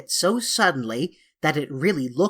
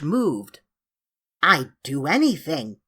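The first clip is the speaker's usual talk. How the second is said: tearful. A narrator's reading. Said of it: "in a tearful voice".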